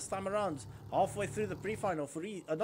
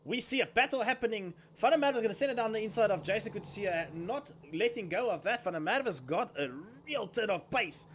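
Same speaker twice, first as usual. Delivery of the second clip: rising excited race call, louder and higher; motorsport commentator; 3 semitones higher, 4 dB louder than usual. Real, not acted. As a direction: call the overtake with building excitement. Live kart race overtake call.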